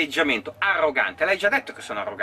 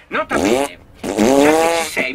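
louder, slow, pompous mock reading; loud mock emphasis; 8 dB louder, slower than usual. Mocking the hater with a loud pompous aside. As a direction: boom it out like a teacher.

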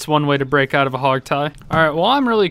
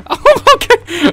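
surprised; 7 dB louder, slower than usual. Real, not acted. Crushed by falling minecart.

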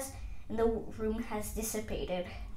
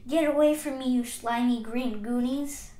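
loud, raised rebuff; repelled yell; 6 dB louder than usual. Acted. Driving off the slimy green goonies, repelled yell. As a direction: yell to drive the pests off. Character fends off clinging tadpoles.

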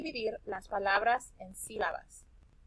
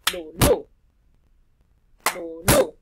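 "Lulú" with LÚ much higher and loud; stress on LÚ; 8 semitones higher, 8 dB louder, slower than usual. Shown as a demonstration. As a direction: punch the last syllable of "Lulú". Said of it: "la sílaba que se pronuncia más fuerte". (acento fuerte en la sílaba LÚ de "Lulú")

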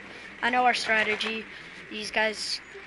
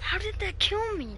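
raging gamer; 9 semitones higher than usual. Real, not acted. Raging after dying in game.

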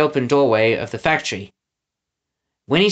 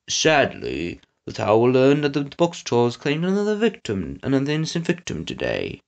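lightly voiced villain; 3 dB quieter than usual. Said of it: "Snatcher said".

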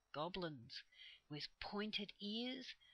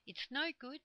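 lightly voiced tiny creature, high; 8 semitones higher, 3 dB louder than usual. A narrator's reading. Small squirrel warns Joe beside him, in a light tiny voice. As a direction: pipe up with a hint of smallness. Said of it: "said a tiny voice beside Joe".

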